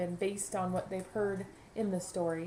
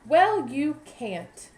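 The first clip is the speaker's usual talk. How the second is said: blunt bee; 6 semitones higher, 9 dB louder, much slower than usual. Acted. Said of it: "said Bumblebee".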